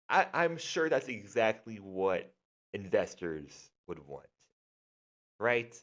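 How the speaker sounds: dripping with pretend belief; sarcastic. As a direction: play along sarcastically, voice falling away after each jab. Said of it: "enough sarcasm".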